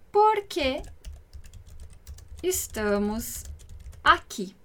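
isolated words with long pauses; spaced-out teaching delivery; slow word-by-word translation. Shown as a demonstration. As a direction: dictate it slowly, one word at a time.

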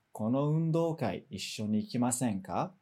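invitation losing force towards "ikimasen ka"; descending intonation. Shown as a demonstration. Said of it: "vai perdendo um pouquinho de força".

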